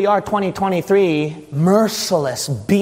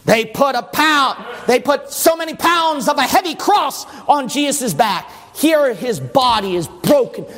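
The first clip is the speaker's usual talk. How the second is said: high-energy pulpit storytelling; forceful preaching; 6 semitones higher than usual. Acted.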